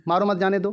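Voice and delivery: "मारो मत जाने दो" run together without a break; "मारो मत जाने दो" as one unbroken phrase; no pause. Shown as a demonstration. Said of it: "आपको अटकना नहीं है".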